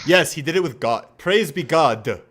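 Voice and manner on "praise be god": mock solemn echo. Echoing a clip line.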